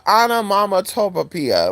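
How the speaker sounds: "onomatopoeia" drawn out with an extra syllable; attempted pronunciation. Real, not acted. Trying a hard word, slow fumbled "onomatopoeia". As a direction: slowly feel through "onomatopoeia", overshooting. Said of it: "how to pronounce that word".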